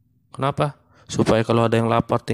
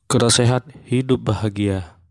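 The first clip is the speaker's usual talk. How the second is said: fruit ad slogan. Pretend. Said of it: "Saya jadi kayak iklan buah".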